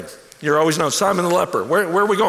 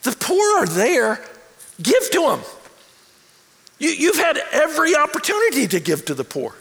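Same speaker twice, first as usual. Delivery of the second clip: preached rebuke; 5 semitones higher than usual. Retold or imitated. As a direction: press the point home on the critics. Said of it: "he says".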